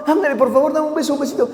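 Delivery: coaxing dad begging for a kiss; playful pleading. Acted. Padre insiste por un beso. (súplica juguetona y mimosa)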